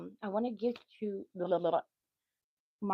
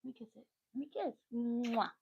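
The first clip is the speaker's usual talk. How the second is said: soothing; 5 semitones higher, faster than usual. Real, not acted. Mother soothes hurt son.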